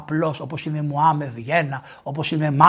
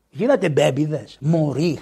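ordinary talk

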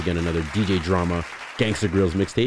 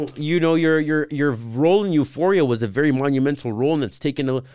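high, loud gushing interviewer imitation; imitated eager reporter; mock interviewer; 8 semitones higher, 5 dB louder than usual. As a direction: pitch it up like an earnest red-carpet host. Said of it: "She's saying".

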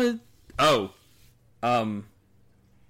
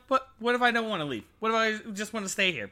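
lightly voiced pleading character, higher and quick; a hint of a higher, hurried plea; Artemis; 6 semitones higher, faster than usual. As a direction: plead lightly in a raised, rushed voice. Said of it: "And Artemis is like".

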